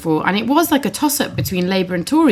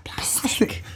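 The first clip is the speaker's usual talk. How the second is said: whisper; 9 dB quieter than usual. Real, not acted. Teasing the Manchester claim.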